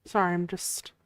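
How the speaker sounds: drowsy, dozing mumble; half asleep, drifting off; nodding off. Real, not acted. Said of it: "falling asleep now".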